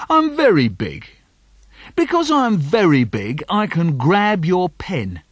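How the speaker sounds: bully boast. Acted.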